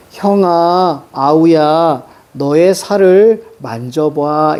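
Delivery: put-on slow, measured reading of old verse; poem recitation. Teacher reading a sijo aloud to the class, slow and measured. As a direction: recite the sijo line slowly and evenly.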